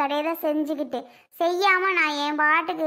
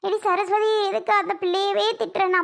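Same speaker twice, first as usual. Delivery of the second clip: imitating father. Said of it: "அம்மா என்ன திட்டினாவே".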